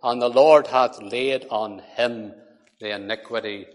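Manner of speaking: measured, solemn reading of scripture. Acted. Preacher reading Isaiah to the congregation: solemn reading. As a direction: read it out as holy words.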